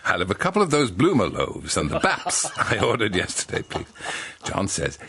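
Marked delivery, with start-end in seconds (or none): 0.1-3.8 laughing. Acted. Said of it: "Missus Bone says".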